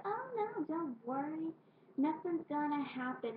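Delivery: high, breezy reassurance; mock reassurance. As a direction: brush off the worry lightly. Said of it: "we were like".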